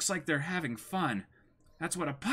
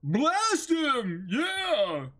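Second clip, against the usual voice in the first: cheering on; 7 semitones higher, much slower than usual. Acted. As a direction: whip up the mob. Crew chanting for the kill.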